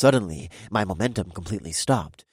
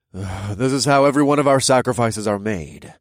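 weary deep voice; 4 semitones higher, 7 dB louder than usual. Acted. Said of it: "the deep voice sighed".

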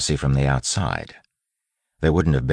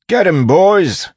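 high, slow, drawn-out battle yell; rallying shout; 10 dB louder, slower than usual. A narrator's reading. Wayne sends the constables at Miles, rallying shout. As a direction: bellow the order to charge, much higher and louder.

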